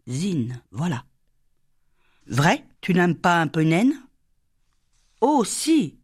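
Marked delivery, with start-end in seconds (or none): 5.2-6.0 higher, eager little yes; eager cry. Acted. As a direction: cry it out, springing up. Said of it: "cria la petite".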